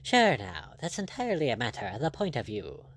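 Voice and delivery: lightly voiced, easygoing buccaneer; a hint of a composed pirate captain; unruffled pirate captain. Blood answering the angry lord, lightly voiced and unruffled.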